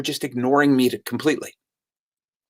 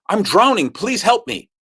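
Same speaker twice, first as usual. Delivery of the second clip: higher, pleading imitation of a frightened swimmer; lightly acted panic; mild retold fear; 4 semitones higher than usual. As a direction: retell a plea for help, pitched up. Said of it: "the look of, of fear in her face".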